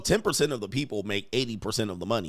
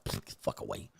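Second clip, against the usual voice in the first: dismissive brush-off; 12 dB quieter than usual. Retold or imitated. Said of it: "So I be like".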